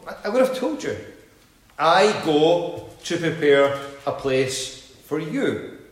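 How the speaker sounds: measured Bible reading; scripture reading. Acted. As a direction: read it reverently with long pauses. Reads scripture aloud.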